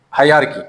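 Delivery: hierarchy as "hai-YAR-ki"; shown pronunciation. Shown as a demonstration. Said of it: "pronounce like".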